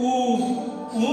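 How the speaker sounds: উ sounded alone twice; isolating a vowel. Shown as a demonstration. Teacher to class, isolating a vowel. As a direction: hold উ as a separate sound. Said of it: "ফুল বলতে গেলে".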